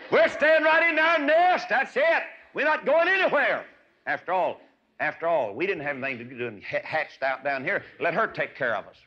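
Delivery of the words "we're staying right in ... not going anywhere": stubborn eaglet voice. Acted. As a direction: squeak out a lazy refusal. Lazy eaglet refuses to leave.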